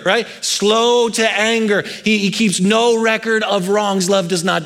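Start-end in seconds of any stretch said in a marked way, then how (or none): 0.4-1.8 "Slow to anger" drawn out slowly, SLOW stressed. Shown as a demonstration. Preacher repeats the phrase for weight, slowly. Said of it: "repeated slower".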